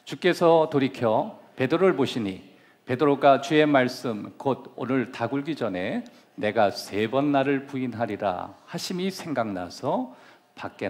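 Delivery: slow, loud congregational reading; scripture reading. Acted. Pastor leading the church in reading Luke aloud, slow and loud. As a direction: read it out slowly with the whole church. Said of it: "다 같이 한번 읽어보겠습니다".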